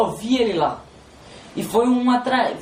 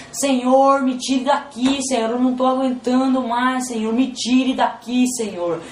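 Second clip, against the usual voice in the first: mildly raised, imitated pleading to God; retold desperate cry; 3 semitones higher than usual. Tormented father begging God for release, retold desperate cry. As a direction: plead as a tormented man, only half crying out. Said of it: "ele tava gritando".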